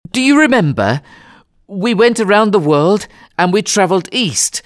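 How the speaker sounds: high, thrilled, insistent voice; excited urgency. Acted. Passepartout telling Fogg he can still win, excited. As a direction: urge him on, bursting with the news.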